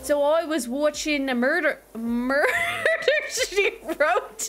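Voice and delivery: faltering, badly faked Australian; Aussie accent. Streamer telling chat about a show, shaky attempt at Aussie. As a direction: attempt Aussie and stumble on "murder". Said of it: "where's that accent?".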